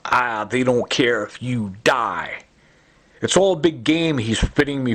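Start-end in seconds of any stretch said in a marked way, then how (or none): 0.1-2.4 slow, voiced put-on voice for "they don't care if you die"; imitating Joe Cantwell. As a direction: drag it out slowly in a lightly voiced sneer. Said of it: "just like this, uh, Joe Cantwell".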